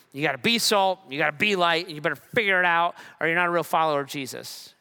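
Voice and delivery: half-hearted imitation of a scolding pastor, fast at the end; mock preacher demanding duty. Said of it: "that's how I always heard this".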